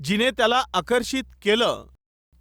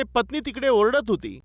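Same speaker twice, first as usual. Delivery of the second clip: ordinary delivery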